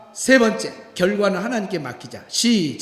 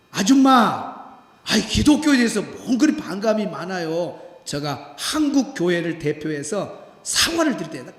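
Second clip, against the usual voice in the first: calling loudly; 5 semitones lower, 3 dB louder than usual. Retold or imitated. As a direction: call out to the woman behind the door. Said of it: "큰 소리로".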